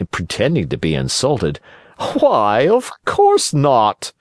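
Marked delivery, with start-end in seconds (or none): 2.2-2.7 high, slow, sly fox; sly fox warning. Acted. Fox feigns modesty. 2.7-4.1 high, slow fox warning; sly fox. Acted. Fox says it.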